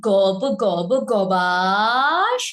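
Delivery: গব গব গবাস stretched very slowly with a rising pull on গবাস; slow, stretched rhyme sound; drawn-out sound word. Shown as a demonstration. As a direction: drag out "গব গব গবাস", leaning into the pull. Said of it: "এ টানটা দিয়েছি".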